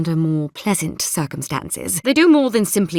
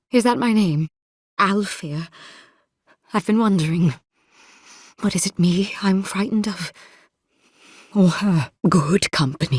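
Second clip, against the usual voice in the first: halting, troubled murmur with long pauses; a broken mind warding off a vision; haunted and unravelling. Acted. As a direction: speak haltingly, as if to a ghost.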